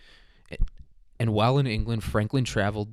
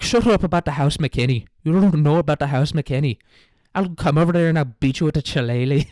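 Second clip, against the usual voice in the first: put-on loud, high-pitched drunken Irish parliament row; drunk yelling; 5 semitones higher, 7 dB louder than usual. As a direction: yell like a drunk in a bar argument. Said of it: "drunk dudes, like, yelling at it".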